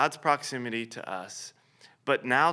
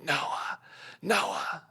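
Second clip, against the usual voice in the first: calling out his name; 8 semitones higher, 4 dB quieter than usual. Retold or imitated. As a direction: call his name over the noise. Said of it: "I'm yelling out to him".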